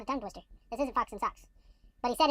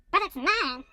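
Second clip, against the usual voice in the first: mock scream; 4 semitones higher, 4 dB louder, much slower than usual. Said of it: "screamed the bird".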